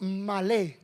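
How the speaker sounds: "malé" stressed on the last syllable; stress on final E. Shown as a demonstration. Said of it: "con acento en la E".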